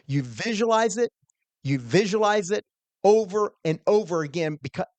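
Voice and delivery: preacher voice. Retold or imitated. Old minister urging a young quizzer to visualize, preacher voice. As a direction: press it home like an old preacher coaching. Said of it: "He had this preacher voice".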